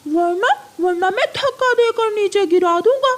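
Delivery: mocking threat. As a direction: threaten with a sneering laugh. Pigeon threatens crow, laughing. (हँसते हुए धमकी)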